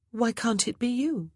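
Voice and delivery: put-on a young lady at a loss; Grace, the new lady of the house. A narrator's reading.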